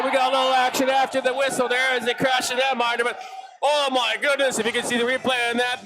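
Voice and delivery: brisk running hockey commentary; play-by-play. Acted. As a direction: follow the puck line by line. Live hockey play-by-play continues.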